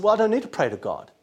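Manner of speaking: breezy, fast and brushed off; hammed-up proud shrug; proud dismissive. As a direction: toss it off like a proud man who needs no one. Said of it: "The man who is full of pride said".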